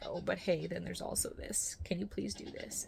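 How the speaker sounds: a soft, tired whisper of a request; hushed quote. Retold or imitated. A wife quietly whispering a request to her hardworking husband. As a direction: barely voice the ask to the husband. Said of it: "and I'm like".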